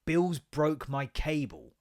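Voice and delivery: drawn-out, slow sulky complaint; slow sleepy grumble to his wife. Retold or imitated. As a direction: drag every word out, sleepy. Quoting himself waking to wife.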